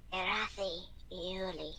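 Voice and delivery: slow rasping voice from the grave. Acted. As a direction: rasp the name out slowly like the dead. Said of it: "emits a rasping voice".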